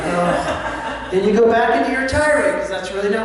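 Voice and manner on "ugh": breathy, voiceless "ugh"; mock exasperated groan. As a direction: imitate a frustrated listener's huff. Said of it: "And you're like".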